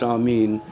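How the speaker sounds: "Amin" as ah-MEEN; long ee in the last syllable of "Amin"; Greek Orthodox pronunciation. Shown as a demonstration. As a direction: say "Amin" ending like "mean". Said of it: "it's pronounced".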